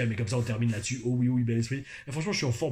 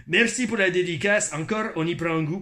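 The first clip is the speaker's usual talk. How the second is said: imitation Québécois with overdone rolled Rs; Quebec accent, rolled Rs; 2 semitones higher than usual. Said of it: "pourquoi je roule les airs". (accent québécois aux R roulés)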